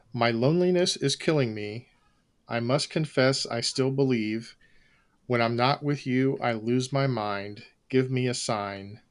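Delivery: flat, deadpan reading of lyrics; monotone voice. Shown as a demonstration. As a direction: read the lyrics with no melody at all. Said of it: "in an especially monotone voice".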